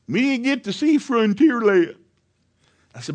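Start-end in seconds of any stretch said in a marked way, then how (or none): 0.1-2.0 put-on higher, slower child's complaint; whiny little girl. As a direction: voice a tearful little daughter. Crying daughter voiced.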